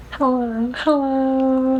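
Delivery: too-high voice. Shown as a demonstration. Vlogger demoing his early vocal training voice, pitched way too high. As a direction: show the strained, overly high early practice voice. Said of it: "like, like that high".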